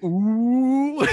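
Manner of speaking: long, high, loud "ooh"; hyped listener reaction. Acted. Imagined listener reacting to the podcast, loud high hoot. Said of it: "somebody listening to this shit like".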